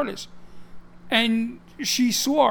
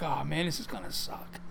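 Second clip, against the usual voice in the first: low, softer aside to oneself; retold private dismay; 5 semitones lower, 8 dB quieter than usual. Beginner among clueless guys tells himself, quiet mock dismay. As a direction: sink into a quiet, lower grumble to yourself. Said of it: "I remember saying to myself".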